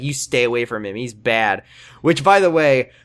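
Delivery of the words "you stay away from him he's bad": low, quiet warning in a quote; imitated firmness. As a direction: lay down the law, low and understated. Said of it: "she's now firm with Ethan".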